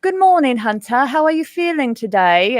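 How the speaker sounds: high sing-song silly morning voice; mock cheery silly voice. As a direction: greet the son in a silly voice. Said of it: "a silly voice".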